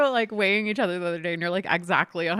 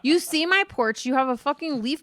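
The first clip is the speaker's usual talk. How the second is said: higher, louder furious retold yelling; angry yell; 6 semitones higher, 5 dB louder than usual. Wife yelling at the leaf-blowing groundskeeper, higher and louder. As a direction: let it rip at the leaf blower guy. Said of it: "I was like".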